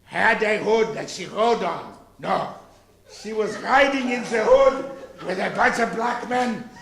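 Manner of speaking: put-on German fairy-tale voice; comic German-accented storytelling. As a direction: tell it in a mock German accent. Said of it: "Little Red Riding Hood".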